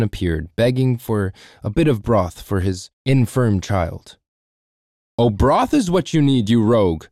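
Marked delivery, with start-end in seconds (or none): 5.2-7.1 louder angry taunt; angry yell. Acted. Overseer yells at the little man, loud and mocking. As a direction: swing the ladle with a jeer. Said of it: "he yelled".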